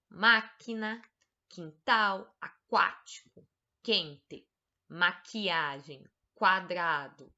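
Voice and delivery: slow, careful word-by-word reading for pupils; reading a word list. Shown as a demonstration. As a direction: read each word out clearly to the class. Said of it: "leia as palavras do quadro". (leitura pausada de lista de palavras)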